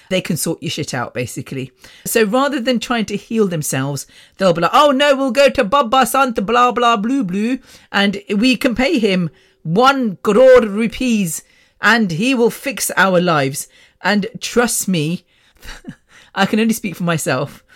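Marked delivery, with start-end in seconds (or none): 4.7-13.7 high, singsong mock panic; mock believers. Imitating relatives who run to the baba, mock-earnest. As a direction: mimic gullible believers in a raised voice. Mimics believers turning to holy men.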